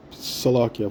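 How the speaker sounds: with hiccups; hiccuping. Real, not acted. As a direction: hiccups breaking the word. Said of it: "And I'm hiccuping".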